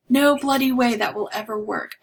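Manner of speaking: put-on blunt Aussie dismissal, lightly accented; blunt Australian put-down; Australian accent attempt. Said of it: "that's Australia or England".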